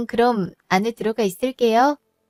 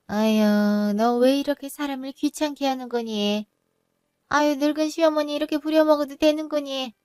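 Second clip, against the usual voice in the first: higher-pitched grumbling reproach; put-upon complaining; 4 semitones higher than usual. Acted. Mother-in-law grumbles at daughter-in-law for bothering her, put-upon. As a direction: complain like an overworked elder.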